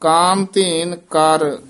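"ਕਾਮ ਧੇਨ ਕਰ" with a slight halt after ਕਰ; brief pause after. Shown as a demonstration. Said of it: "ਇੱਥੇ ਠਮਕ".

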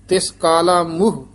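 ਮੋਹ said "muh" to end the phrase; correct pronunciation. Shown as a demonstration. Teacher models it in the verse, ਮੋਹ as "muh". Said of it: "ਇਹ ਹੈ ਮੋਹ".

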